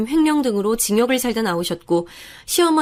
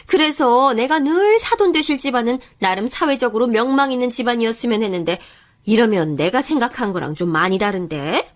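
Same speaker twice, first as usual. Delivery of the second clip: scolding, snobbish mother voice; haughty mother-in-law. Acted. Mother sizing up her son's fiancée, haughty and scolding. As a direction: look down on the prospective daughter-in-law.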